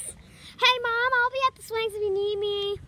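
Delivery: calling out to Mom across the park. Real, not acted.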